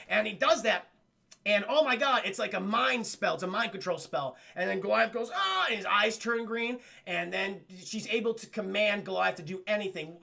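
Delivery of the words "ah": high mock cry of being hit. Goliath struck by mind control, crying out. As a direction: cry out as the spell lands.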